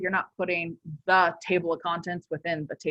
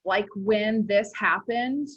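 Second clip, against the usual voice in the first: put-on drawn-out Valley Girl lilt; 2 semitones higher, slower than usual. Shown as a demonstration. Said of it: "say that statement in a Valley Girl".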